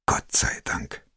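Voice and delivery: slow, voiceless whisper of relief; relieved whisper. A narrator's reading. Narrator seeing his friend asleep, relieved whisper. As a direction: breathe it out, afraid to wake her.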